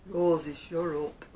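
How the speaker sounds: slow, broad Lancashire scolding; drawn-out Coronation Street style; Oldham accent. Retold or imitated. Showing how Oldham talks to the dog, broad accent. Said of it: "That's the way they speak up there".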